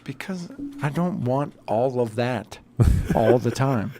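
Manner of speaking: talking with chew in mouth; words around a wad of chew; chewing tobacco. Real, not acted. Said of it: "put this fake ass chew in my mouth".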